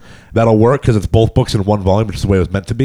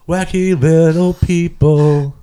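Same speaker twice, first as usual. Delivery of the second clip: mocking echo; 7 semitones higher, much slower than usual.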